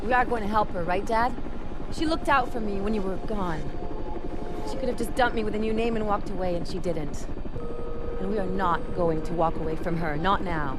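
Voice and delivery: loud, insistent plea over the noise; loud pleading. Acted. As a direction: push Dad hard to help her. Daughter pleading with father loudly.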